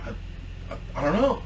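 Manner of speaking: very soft, hesitant mumble; acted timid, hushed stammer; sheepish. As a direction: shrink away, barely voicing the answer. Sheepish employee answers angry boss.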